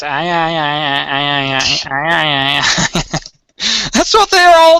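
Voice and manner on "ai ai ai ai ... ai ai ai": imitated chatter. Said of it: "if you're Korean, it's".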